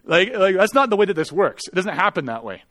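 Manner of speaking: heated, scolding retelling; mildly angry retort. Retold or imitated. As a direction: act out a touch of indignation. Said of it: "I got angry quickly".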